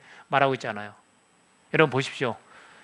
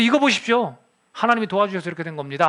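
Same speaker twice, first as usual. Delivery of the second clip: mock indignant declaration, pitched up at the start; retold bold outburst; 3 semitones higher than usual. Preacher voices Jacob confronting his father-in-law, retold bold outburst. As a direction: imitate Jacob crying out, higher-pitched. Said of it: "막 큰 소리 치는 거예요".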